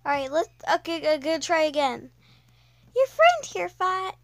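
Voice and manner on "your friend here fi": terrified. Acted. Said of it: "I cannot make a scared voice".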